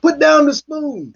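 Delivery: high, drawn-out mock command; mimicked officer's order. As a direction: stretch it out like an exaggerated order. Mimicking officers' order over the spoon.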